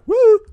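very high, loud whoop of triumph; hammed-up victory whoop; triumphant woo. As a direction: cheer like you just won. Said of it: "She's giving me a little trim".

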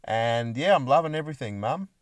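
mock-sincere son reassuring his mum; imagined salesman. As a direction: lightly play a contented salesman. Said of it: "What'd you do today, Larry?".

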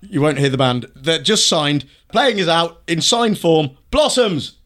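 mock TV announcer, building to the band's name. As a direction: introduce the band like a host. Announcer play-out with music.

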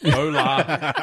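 high, loud, laughing gringo "Hola"; mock an Aussie saying "Hola" badly; gringo accent. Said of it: "your gringo self".

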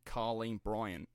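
lightly put-on Australian accent; a hint of an Australian news reporter; Australian newsreader accent. Imitating reporters saying the mum's name, light Australian accent. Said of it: "I keep hearing the Australian news reporters saying".

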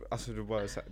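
normal talking voice

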